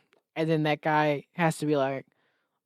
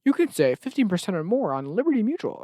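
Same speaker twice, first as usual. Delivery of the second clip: ad read; 5 semitones higher than usual. Retold or imitated. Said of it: "cut to commercial".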